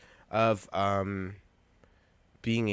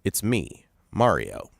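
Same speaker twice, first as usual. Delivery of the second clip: low, louder "Mario" in a plain Brooklyn lilt; Brooklyn accent; 4 semitones lower, 3 dB louder, slower than usual. Pretend. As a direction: Chris Pratt's Mario, Brooklyn-style. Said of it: "here's my impression of Chris Pratt as Mario".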